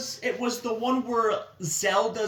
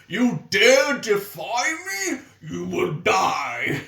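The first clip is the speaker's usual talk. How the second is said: Iron Knuckle voice; 2 semitones lower, slower than usual. Retold or imitated. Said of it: "where he's just like".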